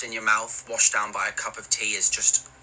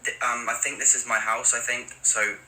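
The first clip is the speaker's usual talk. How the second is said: polite awkward Brit. Pretend. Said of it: "Maybe something like this".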